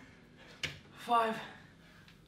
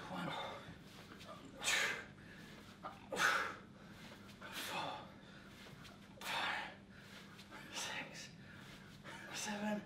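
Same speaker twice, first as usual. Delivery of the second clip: breathless counting mid swing; doing kettlebell swings; 14 dB quieter, much slower than usual. Real, not acted. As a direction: count reps while swinging hard.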